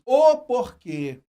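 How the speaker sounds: "O porquê" said slowly, with a loud "O"; stressing the article. Shown as a demonstration. Teacher showing students the article: slow stress on "O". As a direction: lean on "O" before "porquê", slowly. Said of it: "colocar o artigo o antes".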